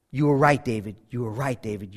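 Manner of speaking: a weeping man trailing off into near silence; fading broken cry. Retold or imitated. Beggar crying, voice fading.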